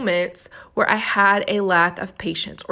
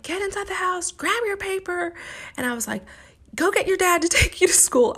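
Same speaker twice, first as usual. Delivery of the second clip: mock scolding; 9 semitones higher than usual. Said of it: "I just go off on him".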